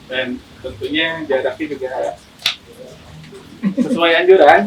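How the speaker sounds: muffled behind a mask; talking through a mask; through a face mask. Real, not acted. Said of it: "kita berdua pakai masker nih".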